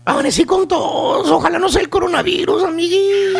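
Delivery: mock sick voice. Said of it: "con voz de enferma".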